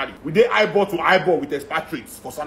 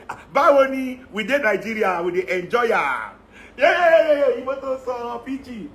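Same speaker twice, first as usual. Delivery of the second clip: mock delighted Nigerians; 4 semitones higher than usual. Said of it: "They say".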